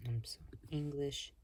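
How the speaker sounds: soft whispered aside; whispering. Real, not acted. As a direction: whisper it under your breath. Quiet aside while setting up.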